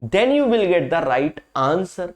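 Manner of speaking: very slow, drawn-out English sign-off; slow catchphrase. Acted. Teacher to students giving the method's payoff, slow drawn-out catchphrase. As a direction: stretch every word out like a signature line.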